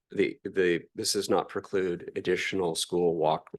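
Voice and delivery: strained, hoarse voice; losing voice, hoarse. Real, not acted. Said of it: "losing my voice".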